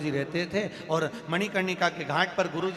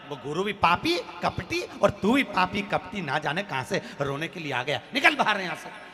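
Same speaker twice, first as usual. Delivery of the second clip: wife's abusive rant ending in a yell; acted sharp-tongued tirade; angry scolding. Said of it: "पत्नी चिल्ला कर दौड़ी".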